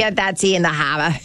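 put-on Boston accent, playful jab. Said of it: "Oh, I could keep going".

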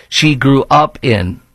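"she grew up in" slow, leaning on "up"; stress on grew up in. Shown as a demonstration. Host pointing at the columnist's key phrase, slow and stressed. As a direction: drag out "grew up in" slowly. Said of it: "key phrase".

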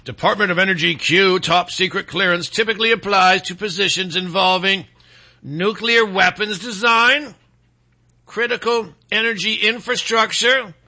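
measured announcer read, slowing on key terms; broadcast voice. Shown as a demonstration. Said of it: "I'll read in my broadcast voice".

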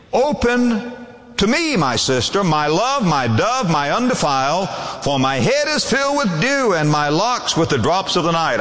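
opens high and lifted, then settles; pleading lover. Acted. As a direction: call tenderly through the door as the lover. Voicing the lover at the door.

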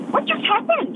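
squeaky high "what just happened?"; high, baffled question after the family drives off; stunned disbelief. Retold or imitated. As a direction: jump way up in pitch, baffled. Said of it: "and we went".

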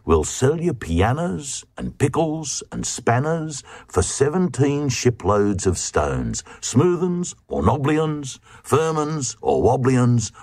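seductive tones. Acted. Traders coaxing the Glugs to sell stones, seductively. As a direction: lure the Glugs in with a sweet offer. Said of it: "they said in seductive tones".

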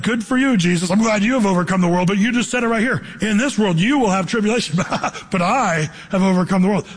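lightly sarcastic retort with a laugh; mildly mock the verse, half-laughing. Young reader answering Jesus, lightly sarcastic. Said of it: "That's the way I used to read it".

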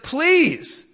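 high-pitched, loud acted plea; hammed-up begging, pitched high. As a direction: plead desperately as a servant before the king. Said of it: "he's begging the king".

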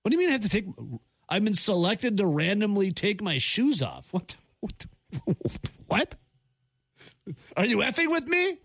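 incredulous outrage. Real, not acted. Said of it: "mock outrage at TSA".

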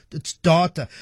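"data" with an ah, like DAH-ta; preferred pronunciation of data. Shown as a demonstration. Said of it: "That's the only way to pronounce it".

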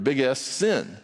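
"big S, sin" spaced out, each word given weight; big S said slowly. Shown as a demonstration. Preacher to congregation, spelling out big S sin slowly. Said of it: "You have to say it slowly".

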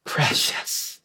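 whispered, reverent Precious; hushed. Shown as a demonstration. Preacher savoring the word precious for the congregation, whispered. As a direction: breathe the word precious softly. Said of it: "he'll use the word precious".

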